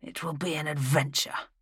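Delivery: talking through a mouthful; mouth full. A narrator's reading. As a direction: say it while chewing food. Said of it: "through a mouthful of food".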